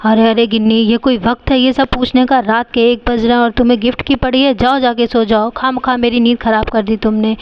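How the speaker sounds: low, grumpy, half-asleep brother; sleepy scolding brother. Acted. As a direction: grumble her back to bed. Brother woken, scolds sister.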